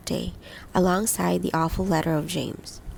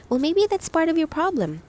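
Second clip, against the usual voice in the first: shrewd; 10 semitones higher than usual. A narrator's reading. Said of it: "Holly suggested shrewdly".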